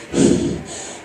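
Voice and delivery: breathy sigh before confessing; acted sigh. Comedian as lovestruck porn actor mid-scene, acted sigh. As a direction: let out a soft, hesitant sigh.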